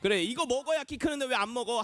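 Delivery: lightly acted nagging mother; mum nagging. Mother answering child who won't eat, mild nagging. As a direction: mildly scold a child into eating. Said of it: "잔소리를 했겠죠".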